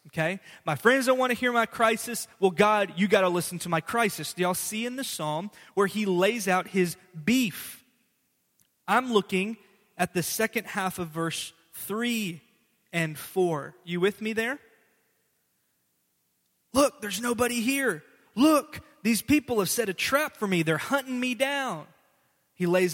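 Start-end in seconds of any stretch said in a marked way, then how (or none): 0.6-4.3 raised, louder complaining plea; a loud aggrieved plea; voicing a complaint. Preacher voicing psalmist's complaint. 16.7-21.9 higher, urgent plea; hunted man pleading, pitched up; acted cry for help. Reading psalmist's cry, acted.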